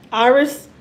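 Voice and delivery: loud summoning call. Real, not acted. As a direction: call her over with a lift. Calling the child.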